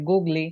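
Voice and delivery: "গুগলি" with a final lee; mock-literal "গুগলি" ending in ee; deliberate misreading. Shown as a demonstration. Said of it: "শুনতে funny লাগতেছে".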